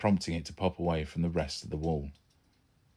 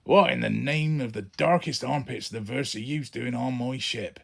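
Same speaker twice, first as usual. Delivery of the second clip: shocked anger; 6 semitones higher, 4 dB louder than usual. Acted. Dad finds stowaway son.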